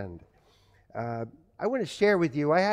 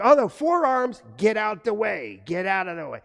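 higher, louder alarm that fades as he flees; mock panic; 4 semitones higher, 4 dB louder than usual. Boy spotting dad's forearms, hammed-up panicked retreat. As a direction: yelp then scramble away, hammed-up fright. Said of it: "It was like".

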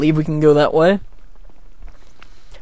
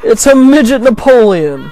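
laughing; 7 semitones higher, 7 dB louder than usual. Real, not acted. Laughing at the villain.

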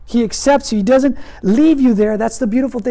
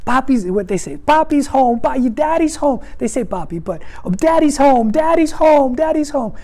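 mild mock cheer of small boys; lightly voiced excited children; imitating excited kids. Father imitating his boys cheering at the door, mild. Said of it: "they start screaming".

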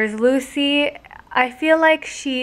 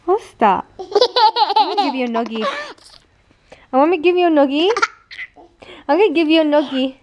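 laughing tease; 4 semitones higher, faster than usual. Real, not acted. Teasing threat to child.

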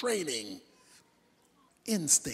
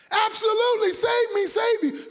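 eager shout; 8 semitones higher than usual. Acted. Man answering the voice eagerly.

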